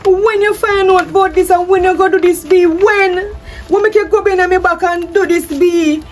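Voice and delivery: panicked, scrambling to explain; frantic distress. Acted. Wife caught out by the DNA test, frantic distress.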